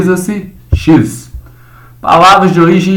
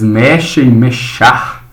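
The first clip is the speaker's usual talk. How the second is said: slow modelled words; slower than usual. Shown as a demonstration. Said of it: "teacher models the words".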